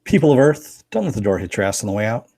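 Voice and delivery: grand alien ruler, then fast dismissal; booming arrogant alien overlord. Pretend. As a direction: address the humans like a haughty overlord. Sign-off in a mock grand voice.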